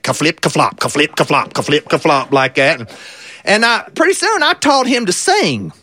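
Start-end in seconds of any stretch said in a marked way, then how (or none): 0.0-2.3 flopping sound. Retold or imitated. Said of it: "kinda like a big old wet pancake".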